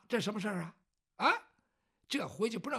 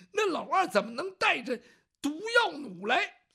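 higher and louder, shocked rebuke; alarmed reproach; 6 semitones higher, 6 dB louder than usual. Acted. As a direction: scold him in disbelief. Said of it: "卢芳在旁边一听".

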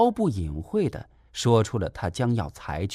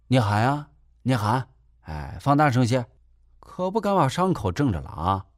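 cheeky. Acted. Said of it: "耍出了二十几岁时的赖皮劲儿".

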